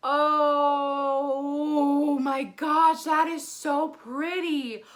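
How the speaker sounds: hugely drawn-out, loud awe; overwhelmed delight. Real, not acted. Vlogger showing the blush swatch, overwhelmed delight. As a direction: stretch the "oh" in sheer wonder.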